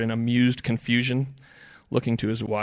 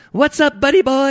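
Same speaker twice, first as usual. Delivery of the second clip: high-pitched shrimp yell; 14 dB louder than usual. A narrator's reading. Shrimp greets Ed from the bait bucket, yelling out. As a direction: yell it like a tiny, excited critter. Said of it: "yelled out a shrimp".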